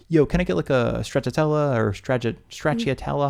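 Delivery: brash American ordering Italian gelato; casual American "yo" tourist order; American-accented tourist. Acted. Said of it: "American accent".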